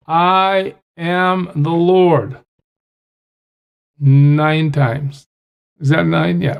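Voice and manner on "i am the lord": "I am the Lord" drawn out very slowly, each word weighted; slow emphatic declaration. Shown as a demonstration. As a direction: stretch out "I am the Lord" to hammer it home. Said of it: "He keeps emphasizing this to us".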